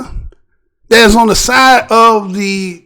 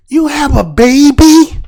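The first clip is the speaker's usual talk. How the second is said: mock officer; 4 semitones higher, slower than usual. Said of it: "You hear the officer".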